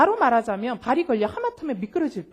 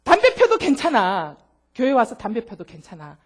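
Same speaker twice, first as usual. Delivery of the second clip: slow pleading permission; 4 semitones lower, 4 dB louder than usual. Retold or imitated. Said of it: "내가 그랬어요".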